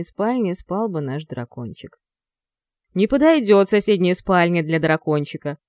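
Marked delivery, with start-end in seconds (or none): 2.9-5.6 louder, growling dragon voice; growly young dragon. Acted. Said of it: "рыкнул зверь".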